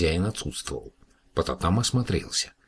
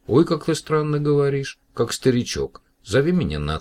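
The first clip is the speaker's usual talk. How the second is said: put-on high, louder girlish exclamation; amused surprise; 9 semitones higher, 5 dB louder than usual. A narrator's reading. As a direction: Masha amused by his old-man speech. Masha voiced by narrator.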